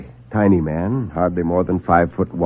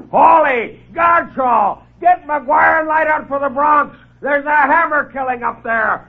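very high shouted alarm; boss's blast; slower than usual. Acted. Boss roaring at his reporters, frantic high shout. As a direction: bellow the news across the newsroom. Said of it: "let out a blast to high heaven".

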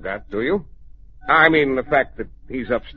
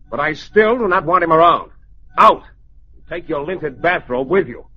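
raised voice, ending on a curt command; imperious painter banishing an intruder; dismissive order; 4 dB louder than usual. Acted. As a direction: order him out loudly. Painter orders husband out of room.

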